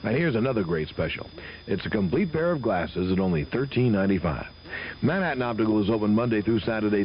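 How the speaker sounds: brisk radio ad read. Acted. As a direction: sell it like a live radio spot. Host reads live optician ad.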